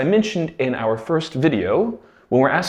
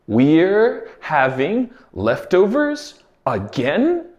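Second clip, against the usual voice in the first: slow clear repeat; 3 semitones higher, slower than usual. Shown as a demonstration. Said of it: "This phrase was".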